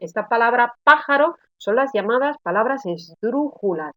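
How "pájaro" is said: "pájaro" with the PÁ hit hard; stress on first syllable. Shown as a demonstration. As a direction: punch PÁ in "pájaro", then let the rest fall. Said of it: "las palabras que tienen la sílaba tónica en antepenúltima".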